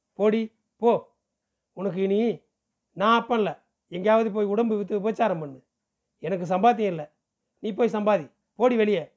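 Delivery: furious father. Acted. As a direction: spit it out at her in rage. Father drives daughter out furiously. (கோபத்தில் மகளை விரட்டும் தந்தை)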